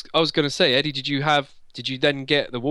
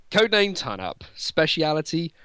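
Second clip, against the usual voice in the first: put-on Swedish accent. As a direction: read the bio in a Swedish accent. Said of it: "totally doing this in a Swedish accent".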